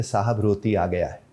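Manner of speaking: a hint of the cook's accent saying "रोती"; Pashto-accented "रोती". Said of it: "मुझे कहते".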